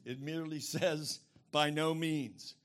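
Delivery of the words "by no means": slow, firm BY NO MEANS; deliberate, stressed "by no means"; emphatic no. Shown as a demonstration. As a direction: stretch out "by no means" with weight. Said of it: "But it's so emphatic".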